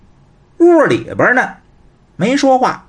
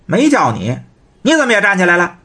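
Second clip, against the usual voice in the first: higher, sharp teasing brother; teasing younger brother; 7 semitones higher than usual. Acted. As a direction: stop the older brother with a mocking call. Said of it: "广兴瞧见了". (调侃的弟弟，声音偏高)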